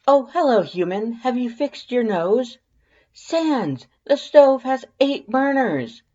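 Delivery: very high, loud, gushing wonder; excitable skeleton Papyrus. A narrator's reading. Papyrus marvels to Sans about the kitchen, high and gushing. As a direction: burst in like a kid at a toy store.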